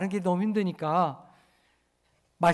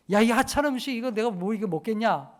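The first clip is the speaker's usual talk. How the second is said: scornful complaint. Retold or imitated. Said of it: "이렇게 얘기하는 거예요".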